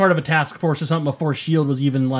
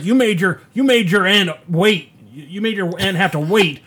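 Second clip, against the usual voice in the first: lightly hammed-up scolding, a bit higher; mock scolding uncle; 3 semitones higher than usual. Retelling Uncle Ben scolding Peter, mock scolding. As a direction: imitate an uncle telling someone off. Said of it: "his Uncle Ben is just being a dick".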